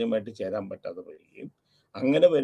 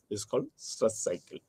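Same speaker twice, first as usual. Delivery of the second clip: slow dictation; 5 dB quieter, much slower than usual. Acted. Teacher dictates key definition.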